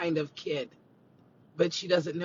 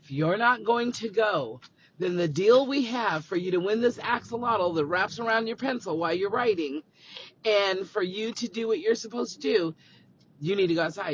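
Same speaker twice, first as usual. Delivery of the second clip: firm; 2 semitones higher, 4 dB louder than usual. Retold or imitated. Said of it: "I have to be firm with him".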